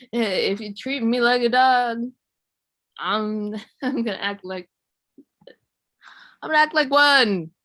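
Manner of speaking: mock flustered, faltering comeback; choking on spit. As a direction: sputter and stall, then blurt it out loudly. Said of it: "choke on my spit or something".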